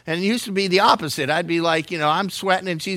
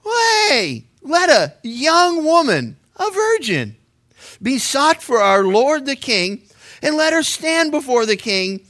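lightly acted servant, higher pitch; servants' proposal; 4 semitones higher, slower than usual. Servants propose a remedy to the king, lightly acted, higher. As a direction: pitch it up, drawing out the words. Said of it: "his servants said to him".

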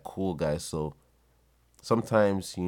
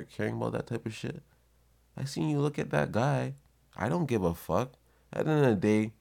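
higher-pitched, incredulous arguing; acted indignant retort; 4 semitones higher than usual. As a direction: argue back as if to a jealous partner. Acted retort to jealous girlfriend.

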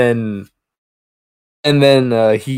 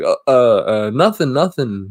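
mock-nervous stalling, stumbling over the words; flustered stammer. Caught man covering up to his neighbor, flustered stammer. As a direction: stammer like someone caught in the act.

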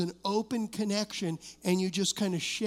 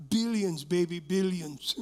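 put-on Middle Eastern accent. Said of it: "with my Middle Eastern accent".

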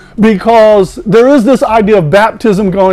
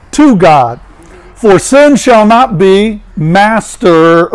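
scripture reading. Acted. Pastor reading Romans aloud to the congregation, measured and solemn. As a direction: read the verses with weight.

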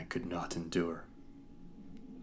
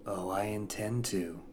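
relishing smile; 2 semitones higher than usual. Acted. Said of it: "said the Inquisitor with a relishing smile".

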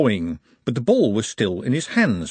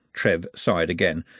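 ordinary delivery

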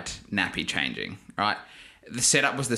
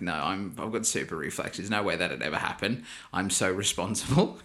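lower, softer mock-smug boast; high and mighty; 3 semitones lower, 3 dB quieter than usual. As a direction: play your cocky past self, understated. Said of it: "I was, like, so high and mighty".

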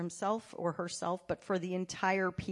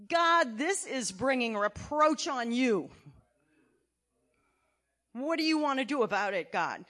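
pleading prayer; 2 semitones higher, 3 dB louder than usual. Acted. Acting leaders crying out to God.

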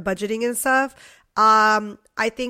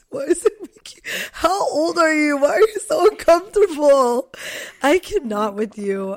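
nasal, higher teasing voice; 3 semitones higher, 4 dB louder than usual. Real, not acted. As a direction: talk through a blocked, nasal nose. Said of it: "I sound so nasally right now".

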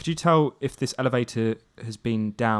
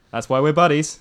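buddy cheer; 5 semitones higher, 9 dB louder than usual. Acted. Merlin cheers Celadon in character.

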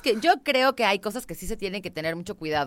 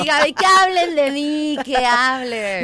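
mock diva; 4 semitones higher, 5 dB louder, slower than usual. Dramatic diva line to Gaby.

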